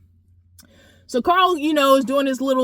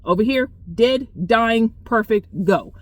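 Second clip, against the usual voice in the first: flat triage call. Retold or imitated. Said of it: "would just sit there and say".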